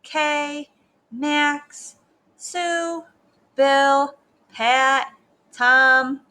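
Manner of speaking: lightly voiced teacher taking attendance; measured roll-call chant. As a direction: call out each name evenly, with a gap after each.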